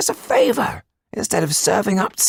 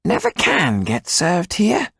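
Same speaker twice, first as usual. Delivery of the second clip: high, slow, peevish grumble; tetchy; 13 semitones higher, 3 dB louder, slower than usual. Acted. Tetu ignored by the waiter, tetchy and high. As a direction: grumble about the waiter, irritated. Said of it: "said Tetu tetchily".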